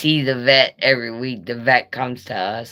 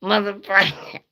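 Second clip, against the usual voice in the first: high squawking bird cussing; squawking parrot; 8 semitones higher than usual. Retold or imitated. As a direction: screech it like a parrot. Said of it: "She's like".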